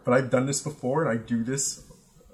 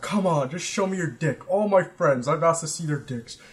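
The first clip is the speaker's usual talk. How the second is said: higher-pitched mock coaxing; imitated pestering; 4 semitones higher, 3 dB louder than usual. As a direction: imitate a drunk friend pushing for a yes. Friend pestering him, acted in retelling.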